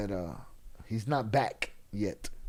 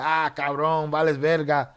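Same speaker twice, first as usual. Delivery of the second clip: loud, rough taunting in Spanglish; mock a guy talking trash; trash-talking tough guy; 3 dB louder than usual. Imitating a man taunting a stranger in the bathroom, loud rough trash talk. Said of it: "he went in there and said".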